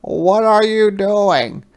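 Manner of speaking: a small creature deciding bravely; little hedgehog voice. Acted.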